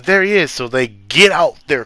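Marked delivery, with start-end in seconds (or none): 0.0-0.5 surprised. Retold or imitated. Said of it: "He goes".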